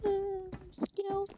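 high, slow sarcastic drawl; mock pride, dragged out. Sarcastic self-praise after dying.

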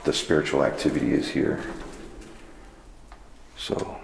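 hushed, nervous ghost-hunt murmur; nervous night vlog whisper. Real, not acted. Alone at night in haunted prison.

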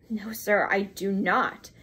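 slow, firm denial, each word weighted; with emphasis. A narrator's reading. Young American firmly denies Mister Brown exists, emphatic. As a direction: lean on "I do not" slowly. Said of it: "returned the young American with emphasis".

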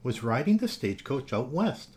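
put-on lively read-aloud for children; animated children's story reading; storybook narration. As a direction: tell it like bedtime story time.

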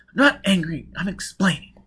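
high, loud, irritated protest; angry denial. Acted. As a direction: insist hotly on being calm. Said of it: "What are you so angry about?".

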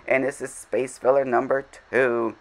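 game show presenter announcing the item; announcer voice. Real, not acted. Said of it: "I sounded like a, like a, uh, an announcer".

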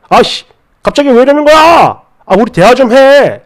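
acted exasperation, pushing to be heard; agitated protest. Boyfriend being thrown out demands a talk, acted agitated protest. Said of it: "이렇게 만류하는 거".

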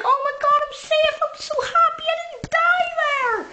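high, gushing, near-tearful relief; the woman gushing that she survived, high and tearful; relieved joy. Retold or imitated. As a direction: squeal with relief at being alive. Woman relieved after near miss.

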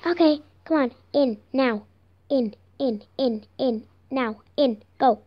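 short repeated commands, mock-stern; bossy orders. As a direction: order a prisoner in. Officer ordering prisoner into cell.

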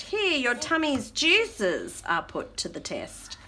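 slow, measured rhyming read-aloud; reading to children. Acted. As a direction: draw out the verse for toddlers. Reads rhyming book aloud.

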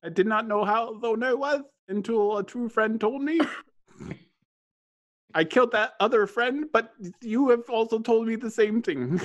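beholder voice. Acted.

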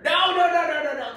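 laughing panic at own bad line; frantic no. Real, not acted. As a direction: cut yourself off in a panic. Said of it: "That's stupid".

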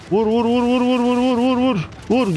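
high, rapid chant of commands; high-pitched repeated battle cry; excited urging. Real, not acted. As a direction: frantically spur troops on to strike. Urging troops to hit in battle.

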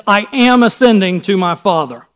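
emphasize "am" to mark the present tense; stress on AM. Shown as a demonstration. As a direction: lean firmly on "am" in "I am ascending". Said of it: "It's present tense".

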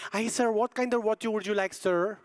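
lightly imitated Filipino accent; a hint of cute Filipino accent; cute Filipino lady. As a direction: play a polite Filipino waitress. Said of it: "This cute lady goes".

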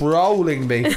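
talking with a bitten tongue; lisping from a sore bitten tongue. Real, not acted. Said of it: "I bit my tongue. It makes me sound funny".

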